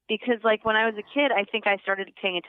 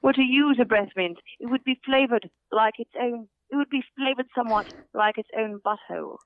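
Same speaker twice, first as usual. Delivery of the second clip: put-on posh British accent. Shown as a demonstration. Improvising about cats and breath mints as audition, posh British. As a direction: muse formally in posh British. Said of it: "it's a very posh British accent".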